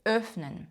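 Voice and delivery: Öffnen starting with a rounded ö; German ö in Öffnen; O-umlaut. Shown as a demonstration. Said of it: "О-умлаут читається як Ö".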